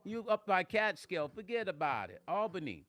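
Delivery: hammed-up New York accent; playful New York-Jersey accent. Teasing Sonya who's not from Jersey, mock New York accent. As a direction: play up a street-corner New York accent.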